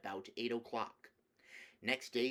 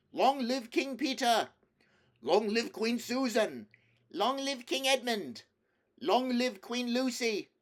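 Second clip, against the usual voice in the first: much higher and louder crowd cheer; deafening shouts; 13 semitones higher, 9 dB louder than usual. Acted. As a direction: hail the new kings and queens at full voice. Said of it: "deafening shouts of".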